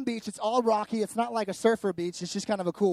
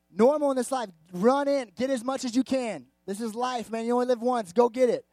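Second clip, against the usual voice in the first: loud, high, punchy mock pep talk; hyped-up urging; 5 semitones higher, 6 dB louder than usual. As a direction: egg them on to grab it all. Voices the world's go-get-it urging.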